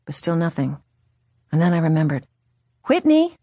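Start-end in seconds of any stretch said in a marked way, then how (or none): 2.8-3.3 high loud call; shouting a name. Retold or imitated. Calling mother by stage name.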